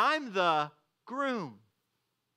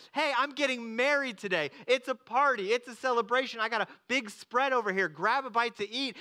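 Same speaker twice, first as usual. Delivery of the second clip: excited host; 4 semitones higher than usual. Pretend. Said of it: "said, like".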